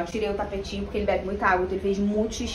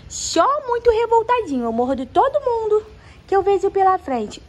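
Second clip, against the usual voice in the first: puppy voice; 12 semitones higher, 5 dB louder than usual. Pretend. Owner voicing puppy.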